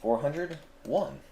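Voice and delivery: high, slow robotic count. Pretend. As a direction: count it out like a machine. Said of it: "The robot voice is getting annoying now".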